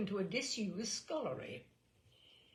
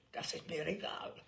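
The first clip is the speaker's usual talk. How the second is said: rasping; 4 dB quieter than usual. Acted. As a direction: rasp it out dismissively. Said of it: "I rasped".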